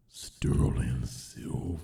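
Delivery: slow hushed whisper, savoring it; breathy whisper. Pretend. Presenting the silver console color, slow reverent whisper. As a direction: whisper it like a luxury ad. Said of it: "I gotta do it".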